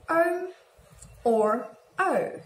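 O said as a gliding two-sound vowel; long O. Shown as a demonstration. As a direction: say each O as a diphthong, not a simple O. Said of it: "a combination of two sounds".

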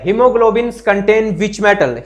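very slow, drawn-out English question; dictating the question in English slowly; slow question read-out. Shown as a demonstration. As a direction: read it slowly so students can follow. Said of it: "आ, haemoglobin में कौन सी धातु".

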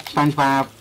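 lightly voiced Squidward, barely changed; a half-hearted Squidward try; bad Squidward impression. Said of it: "really bad Squidward impression".

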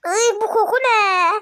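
high, slow, squealing disgust at the smell. Real, not acted. Reacting to the cooking smell in the kitchen, disgusted squeal. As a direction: recoil from the stink, laughing.

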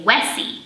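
Wessie said with a W for the J; W sound demo. Shown as a demonstration. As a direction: put a W in place of the J sound in Wessie. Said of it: "instead of Jessie, you would say".

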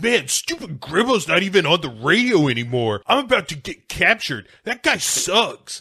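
increasingly high-pitched complaint; exasperated whine. Acted. Milo about to be captured, exasperated whine. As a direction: act fed up, pitch climbing to the end. Acting Milo's exasperated realization.

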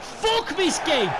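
high, loud, slow, drawn-out raging shout; slow furious shout. Real, not acted. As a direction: stretch every word in fury. Raging after late equaliser.

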